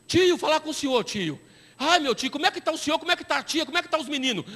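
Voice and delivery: a hint of a wheedling young caller; scam caller. Prisoner calling the pastor collect, lightly wheedling.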